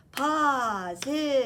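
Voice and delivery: "Positively" in four spaced beats, pos, i, tive, ly; each syllable of "Positively" separate and stretched; split into syllables. Shown as a demonstration. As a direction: say "Positively" part by part for counting. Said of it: "you count the parts".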